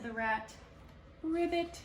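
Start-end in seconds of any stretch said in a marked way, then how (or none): 1.2-1.8 a high, loud croak; high froggy croak. Acted. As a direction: croak it like a frog. Frog croak.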